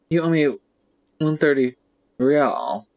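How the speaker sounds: a hammed-up aristocratic accent, with the R in "real" rolled grandly; the manager says "one thirty real" in mock aristocratic accent, the R in "real" stretched out. Manager demands his payment in a mock aristocratic accent. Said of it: "He pronounces the R with a mock aristocratic accent".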